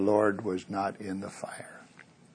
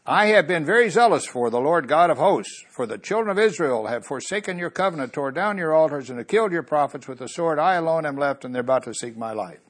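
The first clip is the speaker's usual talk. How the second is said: Elijah complaining; 5 semitones higher than usual. Acted. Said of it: "Elijah goes on to tell".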